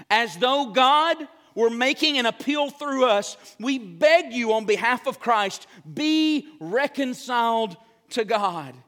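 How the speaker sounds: slow, weighty reading of the verse; solemn scripture reading. Real, not acted. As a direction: lean on each word of the appeal. Reads scripture slowly, emphatic.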